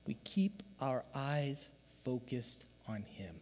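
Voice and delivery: slow, hushed whisper to the congregation; whispered emphasis to the church. Real, not acted. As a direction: lean in and breathe it. Pastor drops voice mid-point.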